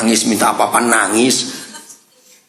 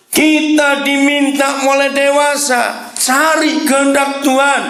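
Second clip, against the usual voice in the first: preaching climax; 12 semitones higher than usual. Acted. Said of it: "preaching climax".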